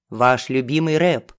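ниже, бубнит в трубку; спокойно бубнить; голос Феликса. A narrator's reading. Феликс говорит по телефону. (Феликс в трубке, ниже голосом)

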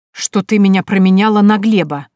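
loud jealous outburst; flaring up. Acted. Nikita accusing Varvara of choosing Gleb, loud outburst. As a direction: suddenly flare up at her. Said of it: "вдруг взвился Никита".

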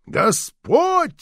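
very high, ringing plea to the Lord; imploring cry. A narrator's reading. Old woman crying out to God over the boils, very high. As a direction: fling the word up to heaven. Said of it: "снова взмолилась старуха".

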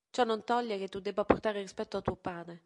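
più forte, severa; fermo ammonimento. A narrator's reading. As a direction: ribadisci il punto con decisione. Madre ribadisce il rispetto. (madre che insiste, voce alzata)

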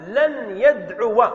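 لن يدعو drawn out, each word slow; slow demonstration. Shown as a demonstration. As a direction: spell out لن يدعو slowly for the class. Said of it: "فنقول". (نطق بطيء للتوضيح)

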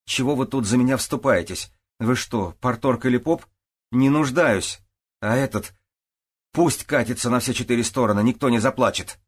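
high and loud, with a claim in every word; a bristling woman snapping back at the men; demanding, indignant. A narrator's reading. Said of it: "Спросила с претензией". (с претензией, высоко и громко)

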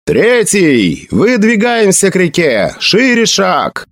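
high marching orders, drawn out at the end; shouted command. A narrator's reading. Graydon marches the Third to the river, shouting. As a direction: call the battalion forward.

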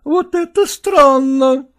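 flaring wife crying out; exclaimed. Acted. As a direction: throw it out in outrage. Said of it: "воскликнула Копровская".

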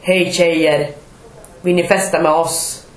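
lightly voiced smarmy man at the bus stop; a hint of a leering flirt; mock pushy guy.

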